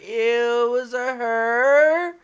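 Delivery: high, loud disgusted ew. Real, not acted. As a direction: recoil in disgust. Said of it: "that's gross".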